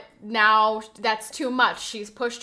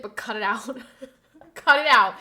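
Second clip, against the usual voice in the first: laughing protest, getting louder; 5 dB louder than usual. Real, not acted. Streamer thanking a gifter but protesting, laughing. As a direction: break into a laugh while telling them off. Laughing while telling chat to stop.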